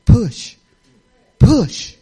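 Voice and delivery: firm call to push, growing; God pressing her to push; God's voice urging. Retold or imitated. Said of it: "he said".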